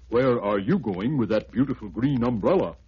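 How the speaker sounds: a lightly voiced elephant asking. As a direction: elephant curious about the umbrella. Elephant asks Sambo.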